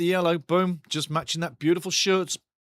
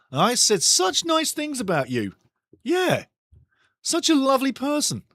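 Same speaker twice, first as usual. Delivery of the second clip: mock hurt; 9 semitones higher than usual. Teasing the cat who muted him.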